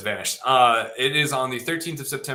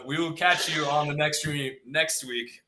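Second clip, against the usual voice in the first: streamer voice; 3 semitones higher, slower than usual. Pretend. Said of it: "the streamer voice".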